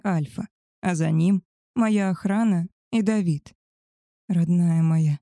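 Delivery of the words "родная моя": ordinary delivery, nothing marked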